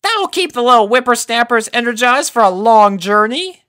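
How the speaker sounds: Granny Smith voice. A narrator's reading.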